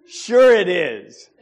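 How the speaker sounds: sarcastic. Retold or imitated. Sarcastic reply to the caller.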